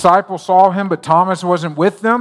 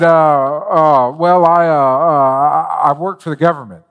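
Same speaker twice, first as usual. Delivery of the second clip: imitating a hesitant, stalling nervous man; nervous stammer; 3 dB louder than usual. Nervous seatmate reluctantly admitting his job to a stranger, nervous. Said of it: "he started kinda getting nervous".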